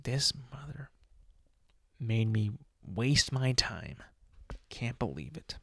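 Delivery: hushed, annoyed whisper under the breath; a quiet, seething grumble; muttered whisper. Retold or imitated. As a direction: whisper the gripe to yourself, seething. Pissed, muttering to himself.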